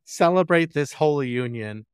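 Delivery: preside like a priest at a wedding; hammed-up wedding sermon; mock officiant. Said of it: "mock wedding officiant".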